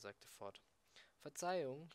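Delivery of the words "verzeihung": higher, louder call for attention. A narrator's reading. Ford hails Mister Prosser at the bulldozers, calling out. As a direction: call out to get someone's attention. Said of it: "rief er".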